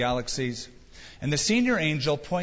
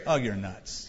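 laughing dismissal; 6 semitones lower, 3 dB quieter than usual. Retold or imitated. Praying people dismiss Peter.

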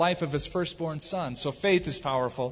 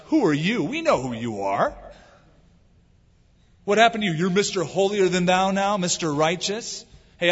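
louder, mocking hometown sneer; scoffing brother; 3 semitones higher, 3 dB louder than usual. Scornful brother, louder and mocking. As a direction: brother taunting the preacher who found Jesus. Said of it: "Those were the words that my brother shared".

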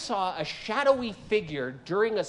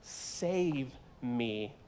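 afraid cry; 2 semitones higher, 5 dB louder, much slower than usual. Acted. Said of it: "he cried out".

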